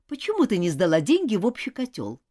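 mildly indignant demand; understated indignant question. Acted. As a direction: demand an explanation with a touch of outrage. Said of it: "возмутилась Нора".

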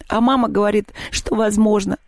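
a touch of weepy complaint; tearful. Acted. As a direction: start to cry as you say it, mildly. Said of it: "заплакала Маша".

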